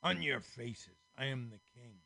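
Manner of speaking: loud, slow kingly threat; ordered. Acted. A king threatening the squares, loud order. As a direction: command them down, slow and heavy. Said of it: "Another ordered".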